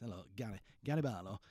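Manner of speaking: a hint of a northern pop singer, half-hearted; bad impression of a pop singer. Host mocking a pop star for listeners, bad impression. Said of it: "talks like this".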